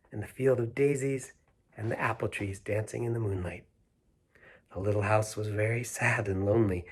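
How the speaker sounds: gentle read-aloud storytelling; a storyteller reading The Little House to children; story narration. A narrator's reading. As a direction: read it like a bedtime picture book. Reads picture book to children.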